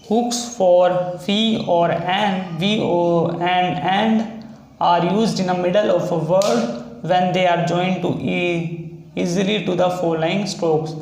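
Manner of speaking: slow, deliberate reading of the textbook rule. Shown as a demonstration. Shorthand teacher reading the rule to students, slowly. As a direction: read the rule out slowly so students can copy it.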